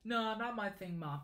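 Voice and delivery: lightly voiced teenager turning Mom down; a hint of a teen brushing off Mom; classic teenage voice. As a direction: put on a mild teenage voice. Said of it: "I had to say it in the classic teenage voice".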